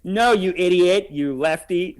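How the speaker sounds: slow, drawn-out scornful rebuke; mock scolding. Host plays interviewer scolding lefty guest, mock scorn. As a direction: stretch the insult in mild mock anger.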